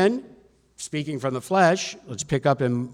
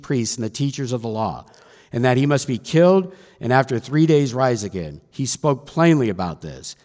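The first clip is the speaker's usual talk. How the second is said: scripture reading; 6 dB louder than usual. A narrator's reading. Preacher reads of the Son's suffering, emphatic scripture reading. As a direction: proclaim the passage, leaning on key words.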